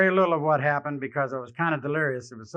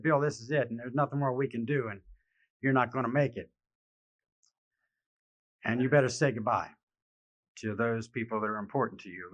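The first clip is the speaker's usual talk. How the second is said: softly delivering bad news; low, hushed, somber; quiet and grave; 5 semitones lower, 7 dB quieter than usual. Doctors deliver fatal news.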